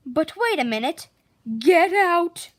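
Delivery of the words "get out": loud, startled get out; surprised outcry. A narrator's reading. Narrator exclaiming at the sprouting garden. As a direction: burst out in amazement.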